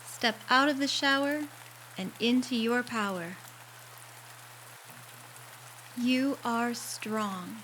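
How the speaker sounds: guided meditation affirmation. Acted. Sending the listener out of the shower empowered, in unhurried meditation voice. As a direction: gently lift the listener, stretching out each affirmation.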